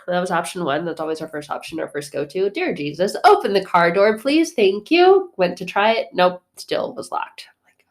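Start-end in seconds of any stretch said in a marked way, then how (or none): 2.5-5.3 mock pleading prayer. Quick desperate prayer for the lock.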